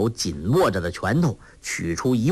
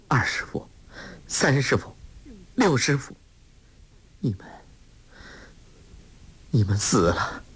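gentle and respectful. A narrator's reading. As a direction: call each master tenderly, faltering at the end. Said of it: "声音柔和， 却仍是带着往昔和师傅们说话时的尊敬语气". (声音柔和而恭敬，断断续续地轻唤)

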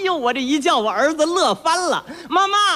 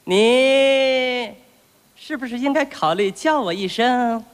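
coaxing father; slower than usual. Acted. Father coaxing son to say papa.

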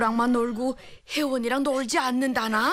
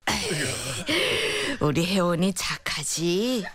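put-on slow, drawn-out soothing of a child; 3 semitones lower, slower than usual. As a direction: lull the child slowly, tenderly. Grandmother soothing crying child.

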